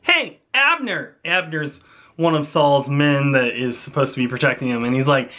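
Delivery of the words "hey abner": high call across the valley. Retold or imitated. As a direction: call up to the camp from afar. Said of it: "he shouts down and he says".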